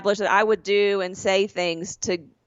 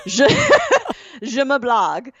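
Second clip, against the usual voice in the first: laughing; 5 semitones higher, 3 dB louder than usual. Real, not acted. Laughs while saying French phrase.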